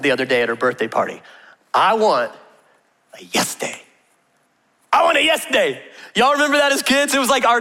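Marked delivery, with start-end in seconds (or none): 1.7-5.8 put-on childlike whiny plea for a yes day; imitating a small girl pleading; mock child begging. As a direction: beg like a little girl at her party. Six-year-old begging at birthday.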